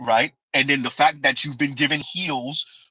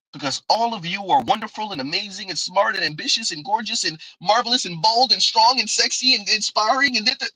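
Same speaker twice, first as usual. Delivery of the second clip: sarcastic gushing, growing more emphatic; mock gushing praise; 5 semitones higher than usual. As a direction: pile on empty flattery, rising in volume to a bored dismissal. Rattles off mock praise, then yawn.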